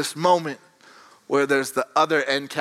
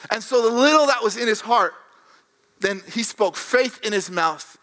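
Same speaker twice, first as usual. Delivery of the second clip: higher, impassioned sermon delivery; raised-pitch preacher's conviction; preaching; 5 semitones higher than usual. Real, not acted. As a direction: press the belief onto the congregation.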